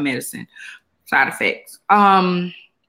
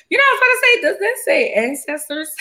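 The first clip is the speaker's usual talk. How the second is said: laughing. Real, not acted. Laughing at her shirt.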